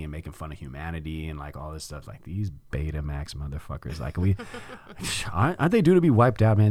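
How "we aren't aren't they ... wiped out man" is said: higher and much louder, jeering angel voice; mock humans like a heckling angel.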